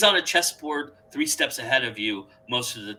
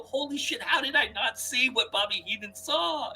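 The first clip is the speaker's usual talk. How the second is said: stunned realization; 10 semitones higher than usual. Retold or imitated. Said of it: "you go".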